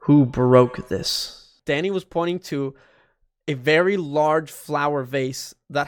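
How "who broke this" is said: slow, low, brooding edgy guy. Acted. A lightly voiced edgy Danny demanding answers from the maids. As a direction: drag out each word like a moody loner. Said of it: "I'll give Danny an edgy voice".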